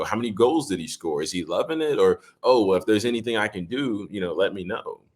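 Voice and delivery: a light, upbeat imitation of a cheery teammate; breezy hello to everyone passing; friendly greetings. Star quarterback greeting everyone in the hallway, lightly imitated cheer. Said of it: "he would speak to literally every single person".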